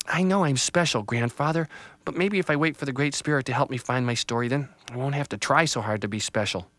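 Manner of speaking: a small tree bracing herself; lightly voiced little tree. Little Tree psyches herself up as the family comes, lightly voiced.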